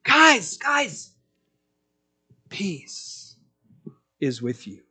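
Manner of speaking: fading to a breathless whisper on peace; tender whisper. Retold or imitated. Jesus softly calming his frightened disciples, fading to a whisper. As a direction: hush them gently, like comforting scared friends. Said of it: "He just says".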